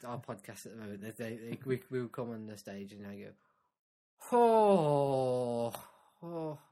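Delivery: Louis Walsh impression. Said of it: "it's the Louis Walsh. And I, I say".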